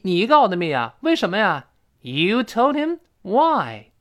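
acted disbelief. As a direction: play a startled demand for an explanation. Acted surprised reply in dialogue.

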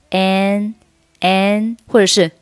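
"an" for and, with no d; reduced and. Shown as a demonstration. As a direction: say "an" with a clear vowel, dropping the d. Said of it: "and还是读成an".

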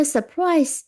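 surprise放慢逐音读，重音在后; drawn-out surprise, stress the second beat; slow model reading. Shown as a demonstration. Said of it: "再拼一遍". (拖慢读surprise，重读第二音节)

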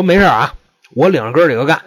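嗓门拉高，给自己壮胆; 声音突然提起来，虚张声势; 提高嗓门. Retold or imitated. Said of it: "就长一调门儿". (提高调门壮胆地喊)

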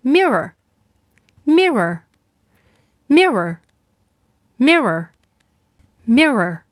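mirror stretched very slowly, curled r at the end; drawn-out model word. Shown as a demonstration. Teacher leading kids to repeat mirror slowly. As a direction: say mirror slowly, again and again, for children to echo. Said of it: "请小朋友跟我一起读".

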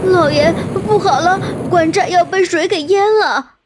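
hurried alarm. A narrator's reading. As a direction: servants rushing in with bad news. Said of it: "急急忙忙地向吐司报告".

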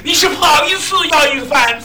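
lightly voiced old lady scolding son-in-law. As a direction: nag like a fed-up mother-in-law. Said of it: "老太太". (老太太数落姑爷，语气埋怨)

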